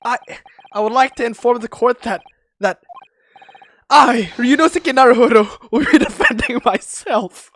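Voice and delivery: loud, grand courtroom declaration, breaking into a laugh; bold defendant. Pretend. Streamer voicing Ryunosuke to the court, loud and grand. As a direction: proclaim it like a hero in court.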